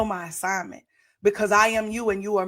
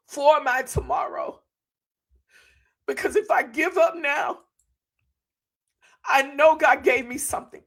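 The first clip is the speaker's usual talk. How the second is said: tearful plea; 4 semitones higher than usual. Retold or imitated. Telling husband through tears.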